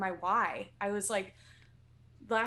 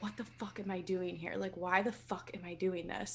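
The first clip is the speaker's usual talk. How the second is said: muttered to oneself; 7 dB quieter than usual. Retold or imitated. Inner doubt while climbing mountain.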